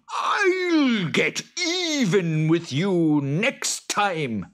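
high, loud hammed-up Boggart. Boggart snapping at the farmer, high and loud. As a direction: squeal it out like a cross little monster.

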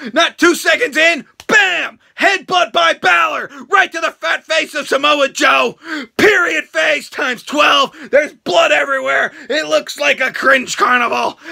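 loud hyped commentary; excited play-by-play. Real, not acted. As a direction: call the action like a ringside announcer.

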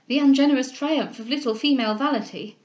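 a hint of a stern older lady lecturing; Mrs Delvile's reproof. Mrs Delvile reproving Cecilia, a lightly stern matron.

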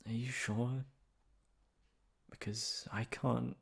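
a shy, emotional lover, happy and nervous in turn; tender girlfriend confession. Acted. Girlfriend hoping her partner means it, tender and emotional. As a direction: play the girlfriend who can't believe she's wanted.

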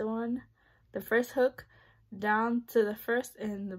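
talking around a tool; tweezers at mouth corner. Real, not acted. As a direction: mouth held open. Seen 0: Tweezer tip held at lips and corner of open mouth, braces showing.

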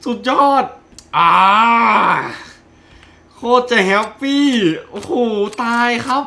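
high loud happy cries; elated cheering. Real, not acted. Gamer celebrating the kill to viewers, elated cheers. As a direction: cheer the win.

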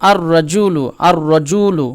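"আর রাজুলু" with the lam silent, running into a doubled r; lam dropped. Shown as a demonstration. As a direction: say "আর রাজুলু" with no l before the rolled r. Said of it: "লামটা বাদ চলে গেছে".

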